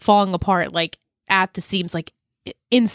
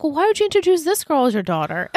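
nonchalant; 5 semitones higher, faster than usual. Retold or imitated. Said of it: "so nonchalantly".

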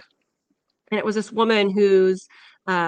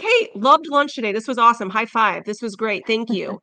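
bright, louder cheerful thanks to the lunch staff; mock cheerful thanks; 4 dB louder than usual. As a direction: sound like a happy kid thanking the lunch ladies. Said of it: "be like".

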